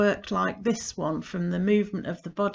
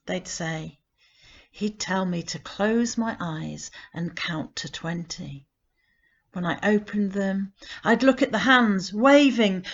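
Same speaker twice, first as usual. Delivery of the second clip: poem reading. Acted. Reading a grandpa poem to listeners, gentle and measured. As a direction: read the poem to listeners, unhurried. Reads her poem aloud.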